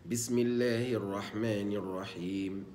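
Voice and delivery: slow measured recitation of the basmala; Quran recitation. Shown as a demonstration. Teacher reciting the basmala for students. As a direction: recite it slowly, tajwid style.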